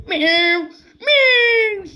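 mock cat meow. Mock cat noise in game. (şakacı kedi miyavlaması)

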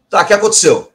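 a stern, loud spirit demanding answers; angry. Retold or imitated. Spirit guide demanding what happened, loud and stern.

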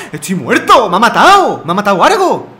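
loud, exasperated complaining; raging gamer. Real, not acted. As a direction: vent about losing loudly. Just lost the fight.

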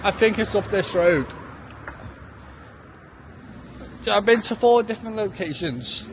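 hiccuping while talking; words broken by hiccups. Real, not acted. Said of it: "I have got hiccups".

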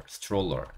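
stroller said as "s-chroller". Shown as a demonstration. Teacher showing how Americans often say it, TR as CH. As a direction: blend the t and r of stroller into a ch sound. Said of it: "이렇게 발음하기도 합니다".

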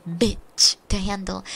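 "bitch" drawn out slow and loud; retold scolding with a heavily punched "bitch"; capital-B emphasis. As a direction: hit the B of "bitch" hard, like a fed-up mom. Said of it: "putting capital B in everything".

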